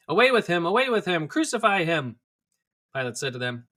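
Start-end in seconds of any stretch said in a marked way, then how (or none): 0.1-2.2 loud, high repeated cry; mob shouting. A narrator's reading. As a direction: roar it down at Pilate. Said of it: "They shouted".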